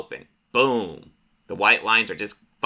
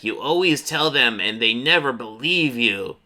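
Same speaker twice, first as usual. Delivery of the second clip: creature voice. Acted. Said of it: "the creature's like".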